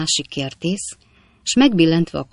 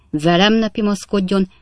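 raised, indignant warning at normal speed; stern warning; 4 semitones higher, 3 dB louder than usual. Acted. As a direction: warn the offender firmly and briskly. Captain's warning, first time.

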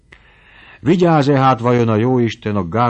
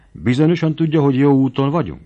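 anxious question; 7 semitones higher, 6 dB louder than usual. A narrator's reading. Frightened girl questions Feri.

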